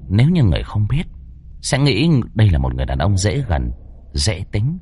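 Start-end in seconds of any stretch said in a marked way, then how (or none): none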